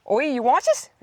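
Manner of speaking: a brief, sheepish try at a Chinese accent; attempted Chinese accent. Shown as a demonstration. To viewers, attempting a Chinese accent. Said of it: "What do I say?".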